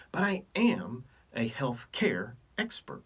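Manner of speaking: slow breathy whisper, like sharing a secret; whispered boast. Acted. Doctor whispers his real expertise to viewers, slow whisper. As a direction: lean in and whisper it slowly. Confiding boast after denials.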